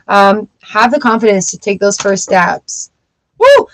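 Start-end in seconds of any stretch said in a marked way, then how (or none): 3.4-3.7 high, loud cheer; excited whoop at a good card; woo. Real, not acted. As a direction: whoop it out with joy.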